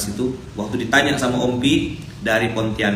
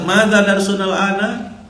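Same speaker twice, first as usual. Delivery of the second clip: slow, higher Arabic question from the ustadz; teacher's question; 7 semitones higher, 3 dB louder, slower than usual. Retold or imitated. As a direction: ask it like a teacher who has just banged the table. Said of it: "digebrak meja sama Ustadz".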